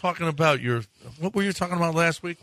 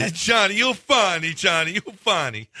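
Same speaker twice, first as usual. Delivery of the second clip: put-on Italian accent; 2 semitones higher than usual. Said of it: "That's how they talk".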